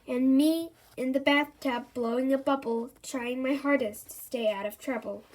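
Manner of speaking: rhythmic singsong verse reading; poem recitation. A narrator's reading. Narrator reading the rhyming chapter, poem rhythm.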